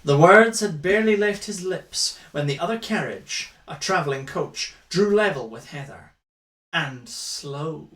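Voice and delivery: dramatic romance-novel reading; story narration. A narrator's reading. Reading a romance novel aloud for a drinking game, dramatic narration. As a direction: read it out as grand narration.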